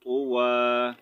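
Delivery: तुवा said slowly, the final vowel cut short for the stop; pausal tuwa. Shown as a demonstration. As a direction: say तुवा as the stopping form, clipped at the end. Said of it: "अब यहाँ पर हम इसको पढ़ेंगे तुवा". (तुवा को वक़फ़ के साथ पढ़ें, आख़िरी आवाज़ छोटी)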